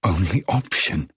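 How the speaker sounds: scornful echo. A narrator's reading. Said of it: "What a ridiculous expression".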